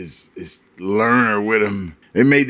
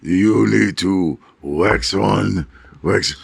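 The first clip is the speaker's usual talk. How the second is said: put-on wise old master voice; 6 semitones lower than usual. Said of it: "wise old man voice".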